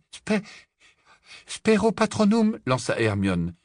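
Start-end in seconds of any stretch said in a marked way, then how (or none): 0.1-2.6 high, broken first try at a spell; faltering incantation. Acted. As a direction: stumble on the first syllable, then try the spell. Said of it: "mais ce fut sans effet". (incantation hésitante, aiguë)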